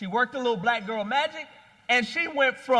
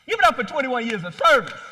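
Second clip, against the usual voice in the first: hype call; 6 dB louder, faster than usual. Real, not acted. Rallying the crowd to applaud.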